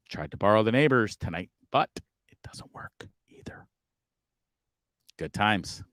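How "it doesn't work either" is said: hushed resigned whisper; whispered aside. Real, not acted. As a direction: whisper it, deflated. Glum aside about neighbours' Wi-Fi.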